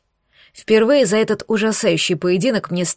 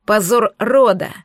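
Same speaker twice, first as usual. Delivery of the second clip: понарошку сердитый окрик, чуть громче; лёгкий намёк на орущего короля; мягко озвученный крик короля; 3 dB louder than usual. Acted. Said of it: "орал король Кракен". (сдержанный озвученный крик короля)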